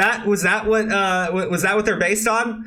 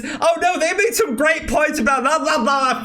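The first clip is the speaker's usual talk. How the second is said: mocking dismissal; 6 semitones higher than usual. Real, not acted. Mocking the article's points.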